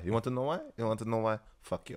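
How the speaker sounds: lightly faked French accent of a Berliner; bad French accent, soft and dismissive; fake French accent. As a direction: put on a slight, shoddy French accent. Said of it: "little fake, shitty French accent".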